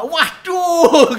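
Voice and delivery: seruan penjual yang melengking keras, dilebih-lebihkan; teriakan kaget. Retold or imitated. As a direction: tirukan penjual berteriak kaget. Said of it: "Orangnya langsung teriak gitu". (teriak kaget dengan nada tinggi)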